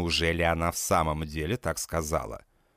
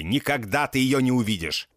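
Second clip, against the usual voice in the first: furious growl; 4 semitones higher than usual. A narrator's reading. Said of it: "рычу я в бешенстве".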